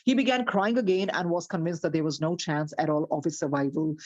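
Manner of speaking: slow, deliberate storybook reading; story narration. A narrator's reading. Teacher reads the story slowly to her class. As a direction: read it out slowly to the listeners.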